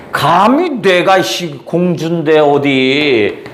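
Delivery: slow, drawn-out haughty scoff; haughty princess. Retold or imitated. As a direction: lord your royal rank over them, slowly. Princess asserting her rank.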